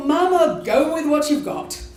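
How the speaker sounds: calling herself Mama to rally; self pep talk. Retold or imitated. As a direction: spur yourself on, brightly.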